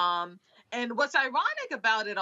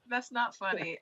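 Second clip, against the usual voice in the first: softer, sheepish repeat; quiet; 5 dB quieter than usual. Real, not acted. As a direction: drop the voice, half apologizing.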